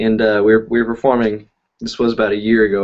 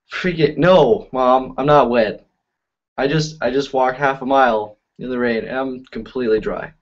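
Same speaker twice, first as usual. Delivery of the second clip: sarcastic; 2 semitones higher than usual. Retold or imitated. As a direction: drag it out, dripping sarcasm. Sarcastic reply to mom.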